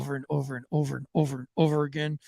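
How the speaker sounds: quick, gleeful imagined thoughts of the officer; a lightly voiced officer relishing it; imagined inner voice. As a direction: rattle off his secret wish, fast. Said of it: "I could see him like".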